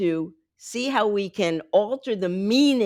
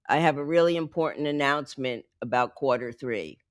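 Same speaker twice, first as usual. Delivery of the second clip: dull delivery; 4 semitones lower than usual. Shown as a demonstration. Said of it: "the average person who sounds rather dull".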